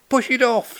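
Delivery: high-pitched, contained scream; mock scream. A narrator's reading. Party guest at cat on balcony rail, mock scream. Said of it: "screamed another".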